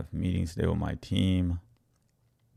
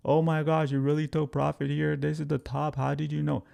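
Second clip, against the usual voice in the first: amazed member; 6 semitones higher than usual. Retold or imitated. Voicing an amazed community member.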